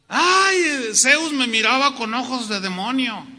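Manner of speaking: high, loud hammed-up "ay"; mock terror. Preacher mocking fear of Zeus, mock terror. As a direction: wail it like a spooked believer. Mock idol-fearing believer, acted.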